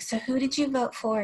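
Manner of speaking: light imitation of a boy's little accent. Twelve-year-old intern asking about the election, lightly imitated little accent. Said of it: "in his little accent".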